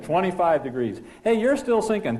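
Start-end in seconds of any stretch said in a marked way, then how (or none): 1.2-2.2 higher, pressing sink callouts; copilot warning. Acted. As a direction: keep warning that the sink goes on. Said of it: "and he says".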